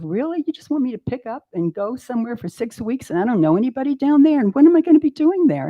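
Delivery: mock indignant protest; incredulous protest. Arguing with inner voice.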